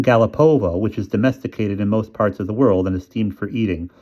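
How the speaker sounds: a touch of mom reading the dictionary; lightly voiced mother reciting a definition; reading aloud. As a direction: read it out like a dictionary entry. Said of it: "she began to read aloud".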